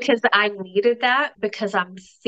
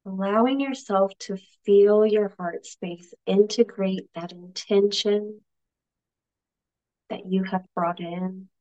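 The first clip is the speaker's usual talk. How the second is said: unhurried meditation with long pauses; calm guide, softening into long silences; guided meditation. Acted. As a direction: leave space after each instruction to breathe. Leads meditation, spaced after coaching.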